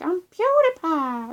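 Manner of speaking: drawn-out, high, loud mock intro; loud, stretched-out mocking catchphrase; PewDiePie impression. Vlogger mocks a YouTuber she can't stand, loud hammed-up impression. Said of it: "he's just like".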